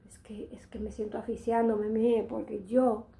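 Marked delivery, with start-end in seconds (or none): 0.1-1.9 whispered. Real, not acted. Complaining about suffocating heat.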